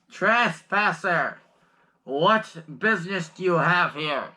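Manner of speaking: slow, loud, booming command. Acted. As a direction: boom it out like a guard captain. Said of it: "a very commanding voice".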